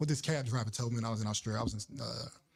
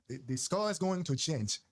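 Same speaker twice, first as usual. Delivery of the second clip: measured, put-on African accent. Shown as a demonstration. Showing off to the co-host, African accent. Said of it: "I could do a good African accent".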